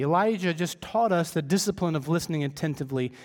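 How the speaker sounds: normal talking voice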